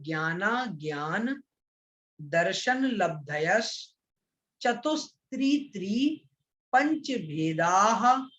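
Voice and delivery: very slow sutra recitation, each phrase set apart by a pause; word-by-word pronunciation. Shown as a demonstration. Teacher warns students against rushing, models slow separated recitation. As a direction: stretch the long vowels in भेदाः and संयमाश्च, unhurried. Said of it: "मैं उच्चारण कर रहा हूं अलग अलग करके".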